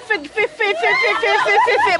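stuck stammering on one syllable; flustered stuttering. Real, not acted. Flustered watcher cannot get the next word out, stuttering. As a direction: stutter rapidly on "fi", unable to get past it. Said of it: "Boy, me can't even talk".

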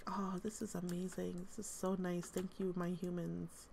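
hushed, soft whisper of contentment; whispered cat delight. Pretend. Cat thanking her humans in a soft delighted whisper. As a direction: breathe it out like a blissful cat. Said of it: "she's like".

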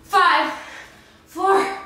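high, punchy countdown; excited countdown. Real, not acted. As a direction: count them down with energy. Counting down the last seconds.

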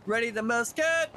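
mock officer calling musket orders; mock drill command. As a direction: call it out like a pretend firing squad order.

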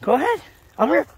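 high encouraging call. Real, not acted. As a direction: call it up to him. Urging dog on.

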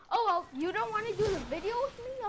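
whiny mock sob; fake crying. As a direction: pretend to cry to guilt them. Friend refuses to join video.

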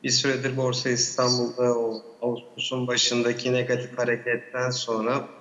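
echoey remote connection. Real, not acted. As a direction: voice echoing on the line. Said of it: "sesim yankı yapıyor".

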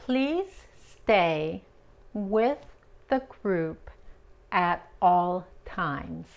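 slow, careful "Please stay with the group at all times."; teacher modeling English slowly; slow model phrase. Shown as a demonstration. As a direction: say it slow and clear for learners. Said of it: "model phrase".

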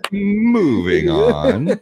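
slow, high, laughing through it. Real, not acted. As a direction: laugh while stretching it out. Laughing, pushing the show onward.

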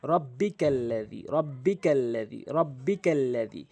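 slow careful repetition of রব্বিকাল্লাযী; slow drilled reading. Shown as a demonstration. Teacher repeating the word for students, slow and careful. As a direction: read রব্বিকাল্লাযী slowly, each syllable drawn out. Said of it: "তাহলে আবার পিছন থেকে".

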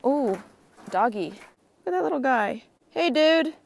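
high cooing doggy voice; talking to a dog. Real, not acted. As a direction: coo at a cute puppy. Greeting a dog.

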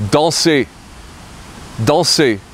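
danser, said dahn-say in French; French pronunciation. Shown as a demonstration. Teacher models danser for learners, careful French. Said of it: "How would you say, "I want to dance"?".

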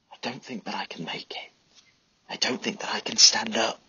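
breathless whisper. A narrator's reading. Wounded Tomo whispering to Charlie, weak whisper. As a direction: whisper so the sergeant can't hear. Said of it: "I whisper".

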